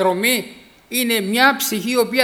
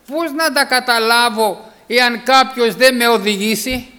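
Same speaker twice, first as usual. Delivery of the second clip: pleading question; 3 semitones higher, 6 dB louder, slower than usual. Acted. Eunuch's humble question emphasized.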